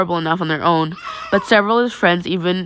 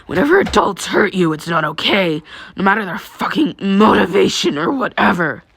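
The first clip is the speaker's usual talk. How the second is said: put-on seething boy. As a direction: spit it out at the absent father. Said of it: "practically seething at the mouth".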